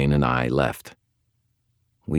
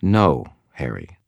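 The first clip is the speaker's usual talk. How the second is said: soft but firm, slow; quiet authority. Acted. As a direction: gently shut him down. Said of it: "spoke in a quiet, firm voice".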